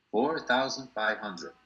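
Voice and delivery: "four thousand five hundred", slowly, each word given room; long-winded demonstration. Shown as a demonstration. Teacher showing the long way to say it, slow and deliberate. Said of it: "No, muy largo".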